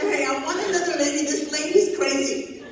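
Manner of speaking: complaining to the manager through laughter; mock complaint to manager. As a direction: demand another lady, half laughing.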